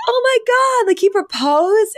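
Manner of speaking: high squealing disbelief; mock gasp of the kids; shocked kids.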